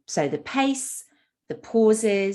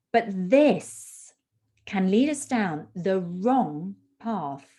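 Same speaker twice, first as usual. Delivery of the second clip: slowed, deliberate read with pauses between phrases and stressed keywords; demonstration reading. Shown as a demonstration. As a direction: read it like a model speech, leaning on key words. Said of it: "listen to how I'm using the techniques".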